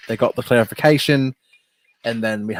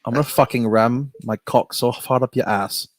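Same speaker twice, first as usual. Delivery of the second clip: British cursing. Pretend. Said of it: "Can you just do a line of cursing?".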